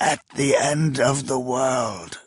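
hissed through clenched teeth; forced out through gritted teeth. Acted. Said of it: "Spittle hissed through clenched teeth".

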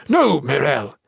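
loud, emphatic refusal; urgent protest; alarmed objection. Acted. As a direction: cut in to stop her. Ethris objects to her offer.

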